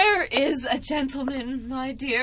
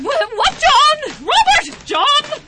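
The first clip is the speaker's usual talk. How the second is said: high, loud call for the servants; 11 semitones higher, 9 dB louder, slower than usual. Acted. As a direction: yell the names across the house. Calling servants in alarm.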